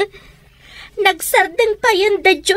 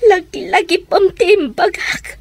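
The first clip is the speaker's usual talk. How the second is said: crying. Acted. Daughter laments, crying.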